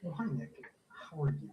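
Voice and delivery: muffled, distant recording; like talking inside a tube; through a tube. Real, not acted. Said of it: "He's in a tube".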